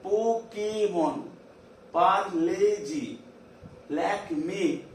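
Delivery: slow examples leaning on the é in "Pokémon" and "Parlez-y"; stressed é sound. Shown as a demonstration. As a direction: stretch the "ay" in "Pokémon", "Parlez-y", "lac me". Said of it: "A sound".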